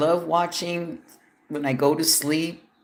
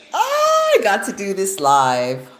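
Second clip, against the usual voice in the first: sassy swooping drag queen squeal; campy drag queen; 4 semitones higher, 4 dB louder than usual. Pretend. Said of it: "I get to read it like a drag queen".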